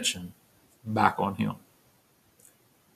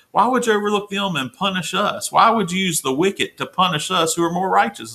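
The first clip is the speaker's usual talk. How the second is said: indignant plea to God, voiced higher; pleading Habakkuk; 6 semitones higher than usual. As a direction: voice climbing high as he pleads with God. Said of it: "here's what Habakkuk's saying".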